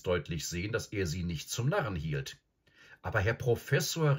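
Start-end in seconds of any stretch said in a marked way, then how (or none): 3.0-4.2 high-pitched exclamation of disbelief; protesting cry. Acted. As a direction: call out in protest to an elder. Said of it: "rief Peter".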